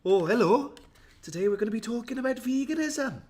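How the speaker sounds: high, loud, singsong Welsh lilt; mock Welsh accent. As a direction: put on your family's Welsh accent, hammed up. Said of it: "My accent is more like".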